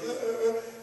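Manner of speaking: high, loud goofy "uh, uh"; hammed-up cheerful noises from a big kid; imitated happy grunts. Huge kid walks up all happy, imitated goofy grunts. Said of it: "He's all happy".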